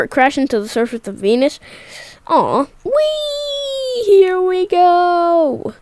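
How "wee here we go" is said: high, drawn-out gleeful wee; sledding downhill. Real, not acted. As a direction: ride it down like a sled. Sliding down again.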